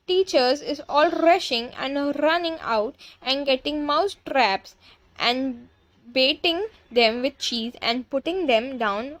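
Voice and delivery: lightly voiced gloating witch with foreign accent. Witch lays out her mousetrap plan, lightly gloating. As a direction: relish each word, stretching key ones.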